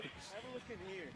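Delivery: breathy whisper. Real, not acted. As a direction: whisper it like a secret. Driver shows car interior.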